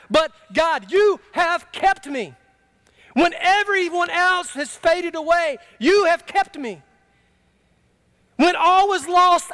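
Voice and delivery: high, slow, ringing preacher's cry; preaching at full force. Real, not acted. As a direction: lift it up and proclaim it slowly. Climactic testimony of God's keeping.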